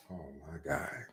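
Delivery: hushed, whispered exclamation; whispered reaction. Retold or imitated. Recalling the sudden sight of the graveyard, stunned whisper. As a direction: whisper it under your breath, very soft. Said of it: "I'm like".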